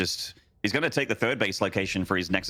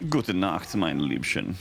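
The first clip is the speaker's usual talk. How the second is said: playful German; 3 semitones lower, slower than usual. Pretend. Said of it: "I don't know why I'm speaking German".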